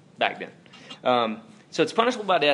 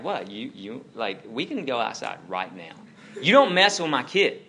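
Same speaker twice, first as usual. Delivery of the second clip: retold angry threat. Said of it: "I was angry".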